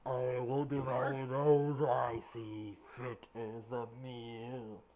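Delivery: slow, menacing dragon voice; booming arrogant alien overlord. Acted. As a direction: loom over them, unhurried. Dragon answers the groveling player.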